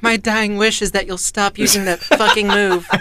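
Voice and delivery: put-on slow, frail dying child. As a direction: plead like a dying kid, laughing. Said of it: "was that your child voice?".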